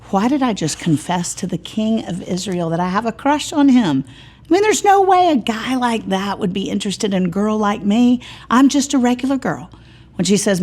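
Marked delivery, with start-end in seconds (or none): 0.1-8.2 put-on anxious girl. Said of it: "she's saying". 8.5-9.7 put-on flustered girl. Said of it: "she's saying".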